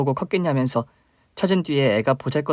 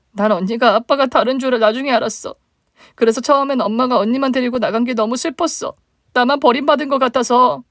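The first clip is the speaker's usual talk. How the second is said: higher, plaintive younger sister; 12 semitones higher, 5 dB louder than usual. Acted. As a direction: voice the hurt little sister reaching up. Younger sister voiced, sad.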